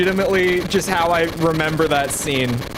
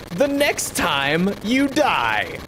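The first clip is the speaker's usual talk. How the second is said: hammy villain voice; 3 semitones higher, much slower than usual. Acted. Villain line read in voice.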